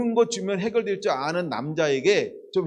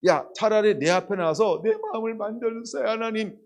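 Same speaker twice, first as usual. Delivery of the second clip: voiced prayer; 5 semitones higher than usual. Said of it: "이라고 해라".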